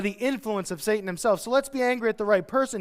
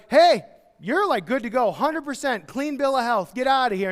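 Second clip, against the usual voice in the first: mock breezy doctor, louder; cheery doctor; 3 semitones higher, 4 dB louder than usual. Doctor dismissing healthy patient, cheery mock voice. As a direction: toss off good news cheerfully. Doctor gives clean bill.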